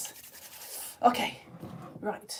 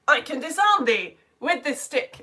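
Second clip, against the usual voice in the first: declaiming Prospero; 4 semitones higher, 4 dB louder than usual. Retold or imitated. Acting out Prospero's comic line.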